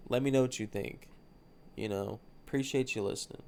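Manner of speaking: talking with a blocked nose; congested, stuffy nasal speech. Real, not acted. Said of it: "I don't know why I'm so stuffy".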